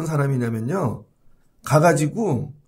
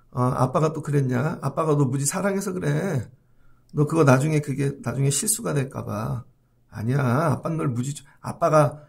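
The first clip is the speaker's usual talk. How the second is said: soothing mother; 4 semitones lower than usual. Retold or imitated.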